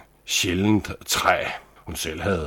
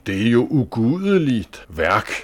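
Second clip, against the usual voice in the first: gently scolding lady; 5 semitones higher, 3 dB louder than usual. Acted. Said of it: "råbte den milde frue".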